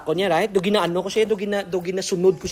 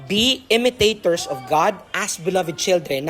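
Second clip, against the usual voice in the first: solemn scripture reading; 2 semitones lower, slower than usual. Acted. Rereading the scripture verse.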